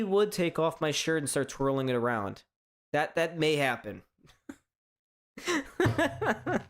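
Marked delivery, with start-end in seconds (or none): 5.4-6.6 high, real laugh breaking into the word. Real, not acted. Host amused by his own shirtless promise, laughing. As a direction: laugh as you start to speak.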